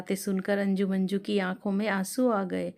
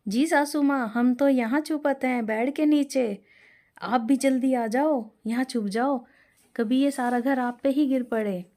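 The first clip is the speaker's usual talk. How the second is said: higher, louder frightened plea from under the bed; frightened urging; 4 semitones higher, 4 dB louder than usual. Acted. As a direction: urge her to hide, scared. Anju fearfully calls from hiding. (डरी हुई ऊँची आवाज़ में)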